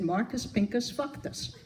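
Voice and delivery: chuckling while delivering the last line; cracking up on the punchline; laughing through punchline. Retold or imitated. Teller at a memorial laughing through the joke's punchline.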